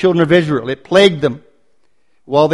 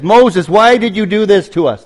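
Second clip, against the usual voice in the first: a mild accusing whine at Moses; a touch of bitter reproach toward Moses; accusatory grumbling Israelites; 4 semitones higher than usual. Retold or imitated. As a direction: voice the people's complaint, lightly accusing. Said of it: "accusatory questions or statements about God".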